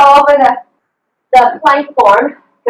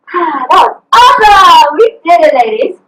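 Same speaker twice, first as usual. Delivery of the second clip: happy celebration. Real, not acted. Coach celebrating end of workout.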